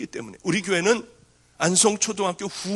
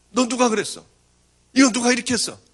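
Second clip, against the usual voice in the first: raised, higher demanding question; nurse demanding answers; 6 semitones higher, 6 dB louder than usual. Retold or imitated. School nurse demanding loudly who hurt the girl. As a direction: press the girl for who did it.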